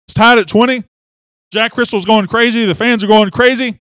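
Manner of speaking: high, loud, urgent recap; excited hype. Real, not acted. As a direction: pump up the moment before the kick. Relives the winning play excitedly.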